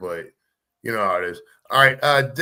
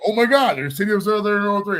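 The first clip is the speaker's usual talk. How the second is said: mock amazed reply; 5 semitones higher than usual. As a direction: play the buddy who just spotted it. Voicing partner's excited reply.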